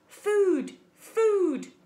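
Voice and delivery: high, loud peeping gosling; hungry gosling cry. Acted. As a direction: squeal it like a starving chick.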